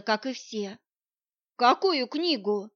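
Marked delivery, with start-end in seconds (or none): 1.6-2.7 slow, puzzled question; baffled what-book. Acted. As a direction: ask as if you truly don't follow. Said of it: "не поняла я".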